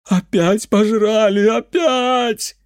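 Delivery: put-on high, loud, slow drunken lament; the drunk uncle wailing at the mage. A narrator's reading. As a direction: wail it like a ruined peasant. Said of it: "заголосил он".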